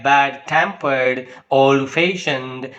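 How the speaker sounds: slow bad-tempered, old-fashioned, with TEM and FA stressed; stress on second part. Shown as a demonstration. Teacher recapping adjective examples slowly, stress on second part. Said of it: "second syllable is mostly spoken with force".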